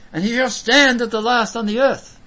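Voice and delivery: loud, high proclamation; scripture declamation. Acted. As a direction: proclaim the verse with conviction. Declaims Job's confession from scripture.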